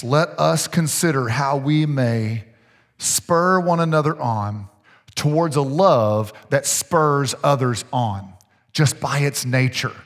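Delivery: slow, measured Bible reading; scripture reading. Real, not acted. Preacher reading Hebrews to the congregation, slow scripture reading. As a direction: read the verse out slowly and deliberately.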